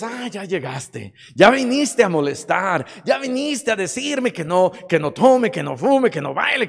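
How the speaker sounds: irritated brush-off, building to a shout; mock fed-up complaint; acted annoyance. Acted annoyed reply to Jesus.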